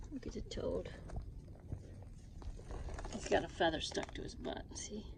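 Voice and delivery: amused whisper about the toad. Real, not acted. Woman whispering in the coop about a feathered toad. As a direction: keep it to a breath, tickled.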